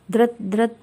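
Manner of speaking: short doubled buzzing syllables; imitated phone buzz. Narrator voices the phone ringing, buzzing. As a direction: mimic a vibrating phone.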